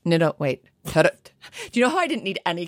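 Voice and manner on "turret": tentative go at a Scottish accent. Shown as a demonstration. American podcaster practising a word from a listener's message, attempted Scottish accent. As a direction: have another try at Scottish. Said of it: "I can do the accent".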